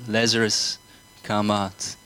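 leading the congregation, a firm call "Lazarus, come out"; called command. Shown as a demonstration.

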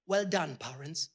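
mock congratulate the parents; sarcastic praise. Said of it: "I was like".

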